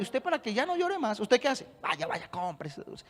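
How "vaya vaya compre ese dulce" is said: low, soft mumbled aside; hushed, low indulgent reply; parent giving in. Acted. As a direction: play a parent quietly relenting to a child.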